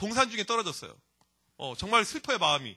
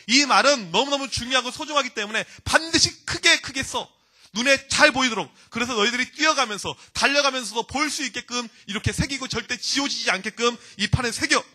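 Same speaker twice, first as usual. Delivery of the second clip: raised, insistent exhortation; earnest urging; 3 semitones higher, 5 dB louder than usual. Retold or imitated. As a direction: press the instruction home with force. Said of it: "신신당부합니다".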